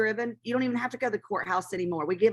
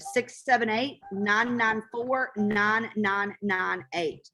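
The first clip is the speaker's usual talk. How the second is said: slow number read; much slower than usual. Shown as a demonstration. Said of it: "Again, that number is".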